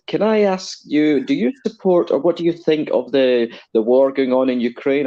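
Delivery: a hint of a posh English student; plummy posh English accent. Woman at charity stall asking, light plummy English accent. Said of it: "with her very plummy university accent".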